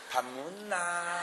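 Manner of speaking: slow, soft, coaxing tone; sweet to bar hostess. Retold or imitated. Same husband asking a bar hostess, soft and slow. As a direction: coo it gently and slowly. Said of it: "술집 여자한테 물어볼 때".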